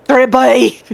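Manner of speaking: put-on Cockney accent. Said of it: "more like a Cockney accent".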